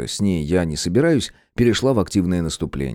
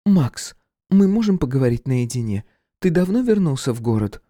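higher, pressing woman's voice; voiced woman Irka; 6 semitones higher than usual. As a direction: try to get him alone. Irka to Max.

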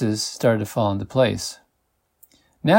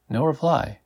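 usual speaking voice

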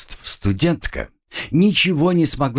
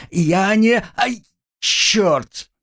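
pained outburst; 11 semitones higher, much slower than usual. Acted. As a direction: cry out mid-protest. Girl cut off by pain.

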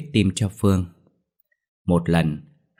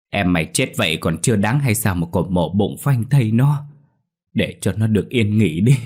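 anguished cry. Acted. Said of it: "đau lòng gào lên".

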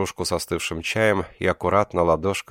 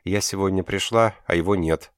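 sobbing; 3 semitones higher than usual. Acted. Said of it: "всхлипнула нимфа".

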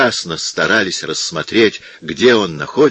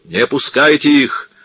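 much higher, louder, slow roar for blood; furious crowd shout; 7 semitones higher, 4 dB louder, slower than usual. A narrator's reading. Furious crowd roars at the monks to stop and kill them. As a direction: whip up the mob to kill. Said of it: "послышалось из толпы".

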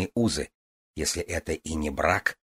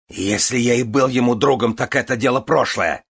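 cutting retort; 5 semitones higher, 5 dB louder than usual. A narrator's reading. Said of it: "отрезал Горлойс".

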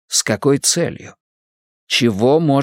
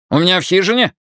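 put-on higher, puzzled Irish accent; 8 semitones higher, much faster than usual. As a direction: ask in a surprised Irish brogue. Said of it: "Ирландский акцент работал на всю катушку".

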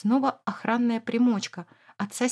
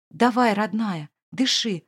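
pleading; 3 dB louder, slower than usual. Acted. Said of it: "молит Эмир".

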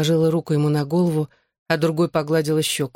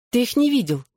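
surprised; 7 semitones higher than usual. Acted. Surprised question at drugged boyfriend.

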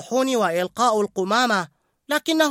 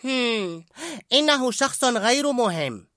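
high, offhand brush-off; dismissive; 10 semitones higher, slower than usual. A narrator's reading. Remy dismissing the new worker. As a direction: wave him away. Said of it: "باستخفاف".

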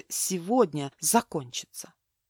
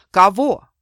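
angry outburst; 7 dB louder than usual. Acted. Mark rages at Milena.

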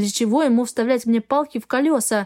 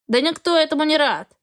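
snorting; 5 semitones higher than usual. Acted. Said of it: "фыркнул Эгра".

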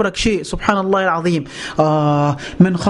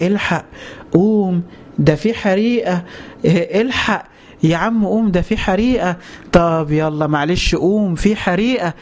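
gentle wake-up; slower than usual. Acted. Preacher acting out politely waking a man in a burning room, gently. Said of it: "أصحيك بالراحة وأقول لك".

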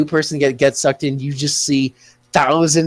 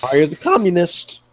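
voice crack. Real, not acted. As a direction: voice breaking mid-sentence. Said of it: "Wow, that was a voice crack".

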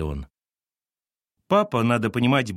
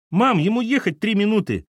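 put-on pleading boy; 12 semitones higher, 5 dB louder than usual. Boy pleading with mum, high whine. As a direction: beg mum, dragging it out.

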